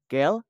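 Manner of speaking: "Quel" as plural quelles, ending on L; silent S. Shown as a demonstration. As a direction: say "Quel" as "kel", no final S. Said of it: "Huruf S tidak dibaca".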